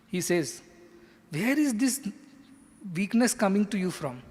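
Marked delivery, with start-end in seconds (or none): 1.3-4.2 mildly stern rebuke, higher pitch; scolding Krishna. Acted. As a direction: challenge him to snap out of it. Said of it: "to get Arjuna's attention".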